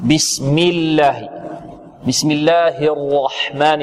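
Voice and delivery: slow, careful Quran recitation. Shown as a demonstration. Teacher reciting the basmala slowly for students. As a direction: recite each word deliberately. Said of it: "اللام في لفظ الجلالة مفخمة أو مرققة".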